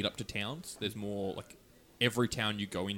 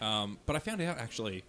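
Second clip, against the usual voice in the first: talking through a burp; words broken by a burp. Real, not acted. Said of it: "this beer is making me burp a lot".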